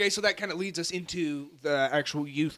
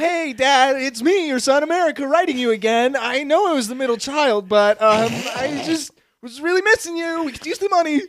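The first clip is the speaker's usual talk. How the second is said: mock child's letter; 10 semitones higher, 10 dB louder than usual. Letter from son America.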